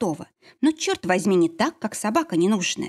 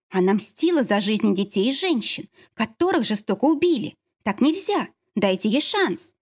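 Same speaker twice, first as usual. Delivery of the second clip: крик; 3 semitones higher than usual. Acted. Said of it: "закричала ещё одна женщина".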